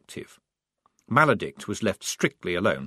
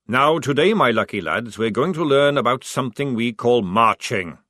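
gruff sergeant; 5 dB louder than usual. Acted. Sergeant addressing recruits.

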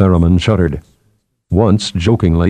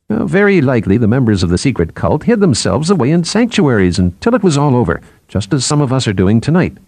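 a touch higher, lively explaining voice; lightly voiced psychologist; 4 semitones higher than usual. Psychologist explains the old liturgical tongue to colleagues, lightly animated. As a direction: explain it with lifted, lilting pitch.

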